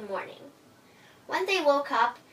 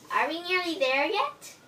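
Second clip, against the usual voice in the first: put-on higher, childlike impatient mouse; little mouse whine; 6 semitones higher than usual. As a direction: ask like a tired little kid. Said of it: "says little Miss Mouse".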